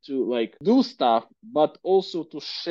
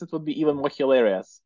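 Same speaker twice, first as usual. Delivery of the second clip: laughing; faster than usual. Real, not acted. Laughs at own accent joke.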